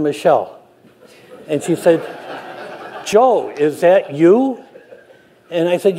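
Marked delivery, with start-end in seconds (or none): 3.0-4.6 slow, amused call with a laugh; laughing friend. Retold or imitated. Friend Michelle finds him resting on the trail, slow laughing call. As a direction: laugh through the question, slowly.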